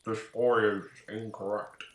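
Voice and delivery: lightly voiced Hank Hill-Kratos; a hint of a gruff dad; Hank Hill meets Kratos voice. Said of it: "halfway between Hank Hill and Kratos".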